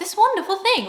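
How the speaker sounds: mock heavy sarcasm in a very high voice. Paraphrasing a sarcastic joke, then pointing it out: sarcastic tone. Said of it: "See the sarcasm in my voice?".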